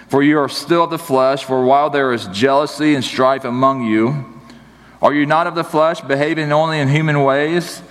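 lifted, fuller reading of the verse; scripture reading. Shown as a demonstration. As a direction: proclaim the verse to the church. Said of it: "Verse three".

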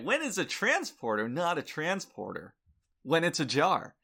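loud, high stand-up punchline voice; old borscht belt comic. Pretend. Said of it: "I'll do my own set for you".

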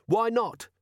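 put-on high, scornful teenage jab; rude boy voice. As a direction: sneer it like a cheeky lad. Boy challenges Carrot.

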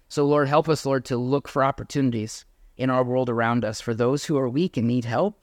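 earnest spoken prayer, unhurried; closing prayer. Acted. Pastor closing the service in prayer, earnest prayer voice. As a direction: pray it sincerely to the Lord.

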